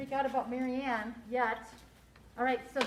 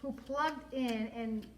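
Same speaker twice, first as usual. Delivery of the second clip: expressive storybook narration with lively dialogue; story read-aloud. A narrator's reading. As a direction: read it to children, acting each line.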